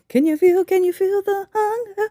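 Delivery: dramatic spooky voice. Acted.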